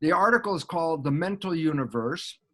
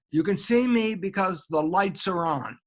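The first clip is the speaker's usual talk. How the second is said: laughing. Real, not acted. Telling a joke, laughing.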